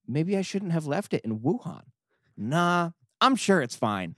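lightly voiced whiny God diary; a hint of a petty God writing his diary; reading as God. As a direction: read it as a self-pitying deity, lightly acted. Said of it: "God says".

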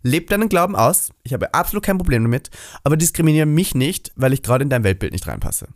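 high sassy diva voice; sassy diva telling-off. Pretend. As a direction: scold them like a fierce drag queen. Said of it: "Und dann bin ich so".

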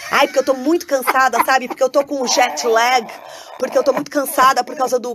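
whiny, tired humblebrag; jet lagged complainer. Pretend. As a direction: sigh out how tired you are. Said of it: "gente que quando me encontra só fica contando suas vantagens".

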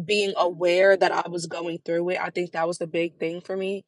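trembling, holding back tears; shaky voice. Real, not acted. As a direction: voice shaking with emotion. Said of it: "I feel like my voice, like, shaking".

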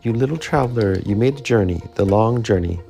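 tender murmur. Acted. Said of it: "It crept to his lips".

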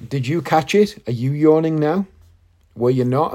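ordinary talk, nothing marked

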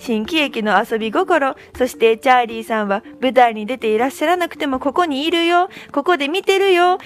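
reading in a put-on Kansai lilt; badly faked Kansai intonation on a read message; attempted Kansai accent. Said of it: "関西弁っぽく。". (関西弁っぽい抑揚で読む)

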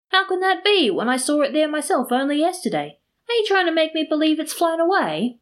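high-pitched mock disbelief; acted incredulity, voice pitched well up; incredulous. A narrator's reading. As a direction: question it as if astonished. Friend feigns disbelief at the theft.

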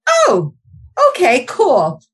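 high startled oh, then forced breezy calm; teacher hiding alarm in front of students, fake cool; mock calm. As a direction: pretend it's fine while panicking. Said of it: "And I'm like".

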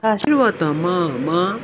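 MA dipping down and swinging back up; third-tone ma. Shown as a demonstration. Trainer shows how horse sounds, "ma" in third tone. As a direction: let "ma" fall and rise. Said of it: "ma with the third tone".

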